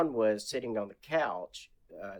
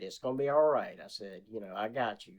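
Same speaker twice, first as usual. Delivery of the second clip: comforting; 5 dB quieter, faster than usual. Retold or imitated. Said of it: "and I said".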